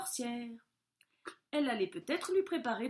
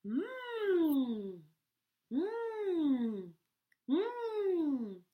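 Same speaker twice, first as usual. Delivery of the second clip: high sniffing hums of a wolf; 6 semitones higher, much slower than usual. A narrator's reading. Wolf sniffing around for the hidden cats. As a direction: sniff the air like a hungry wolf. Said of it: "fit le loup".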